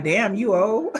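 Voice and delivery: teasing through a laugh; mock the old elf, giggling; laughing tease. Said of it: "He gonna be like".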